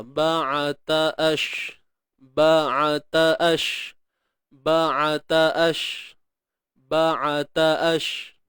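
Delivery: Ba'ata said slowly, each vowel held; drilled syllables. Shown as a demonstration. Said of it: "huruf ba baris atas ba". (Ba'ata dibaca perlahan satu harakat)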